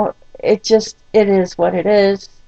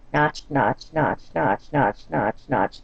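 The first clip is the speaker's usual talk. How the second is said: mimed notching; 5 semitones lower, 6 dB quieter, slower than usual. Shown as a demonstration. Blood pressure notching up, mimed.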